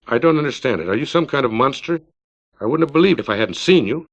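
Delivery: icy, clipped disdain; each word cut short and cold; cold and sure. Acted. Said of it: "a cold, sure voice. The words clipped".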